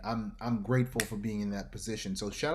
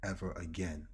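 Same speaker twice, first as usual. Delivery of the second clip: low warning murmur; 4 semitones lower, 6 dB quieter than usual. Retold or imitated. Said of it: "He said".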